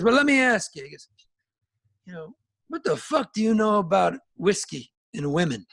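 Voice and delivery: lightly voiced old bluesman, teasing; a hint of an old musician needling the kid; mock-tough old-timer; gruff old bluesman.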